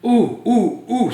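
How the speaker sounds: high, excited hand-raising ooh ooh ooh; like a kid bursting with an idea; eager ooh. Acted. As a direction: Luis has an idea and squeals with excitement. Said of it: "said Luis".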